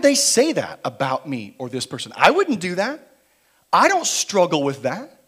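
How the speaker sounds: mock the smug heart, building to outrage; self-righteous inner voice. Preacher voicing the congregation's superior thoughts, building indignation. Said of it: "here's what's subconsciously happening".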